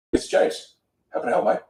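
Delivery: easy, sincere phone greeting with a fresh tune; varied, sincere melody. Shown as a demonstration. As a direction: break the rote melody and sound sincere. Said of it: "you just switched up the melody".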